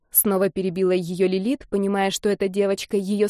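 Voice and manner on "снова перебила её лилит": ordinary delivery, nothing marked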